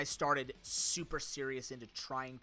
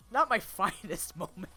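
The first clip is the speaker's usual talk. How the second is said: laughing sheepishly; 4 semitones higher, 5 dB louder, slower than usual. Real, not acted. Laughing at own embarrassing video.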